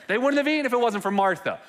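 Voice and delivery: high, loud, laughing repeat; laughing emphasis. Acted. Preacher repeating the joke about Martha to the room, laughing. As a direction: punch it again through a laugh.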